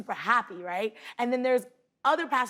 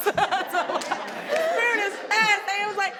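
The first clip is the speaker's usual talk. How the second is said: laughing; 10 semitones higher, slower than usual. Real, not acted. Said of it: "laughing repeat".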